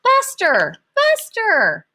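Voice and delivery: high, loud desperate yell; girl chasing her dog, yelling. Acted. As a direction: shout after the dog.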